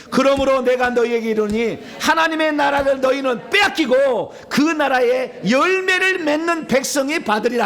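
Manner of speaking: high, ringing, drawn-out verse reading; declaimed scripture. Acted. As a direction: proclaim the verse at a high pitch. Declaims the verse after calling "begin.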